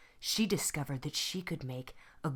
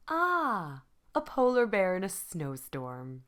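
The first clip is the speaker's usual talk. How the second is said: teacher voice; 3 semitones higher, 4 dB louder than usual. Acted.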